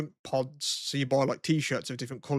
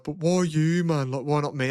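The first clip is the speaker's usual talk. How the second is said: mildly upset protest, pitch a little raised; 2 semitones higher than usual. Retold or imitated. Retelling the rejected guy's question, mildly upset. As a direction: lightly imitate a hurt guy. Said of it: "he was upset and he was just like".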